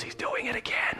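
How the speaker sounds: hushed awed whisper. Acted. A disciple to the others as Jesus appears, whispered. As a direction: breathe it out in awe.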